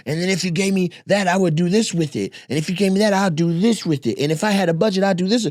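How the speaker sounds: mock polished pitch. Mocking a polite business pitch.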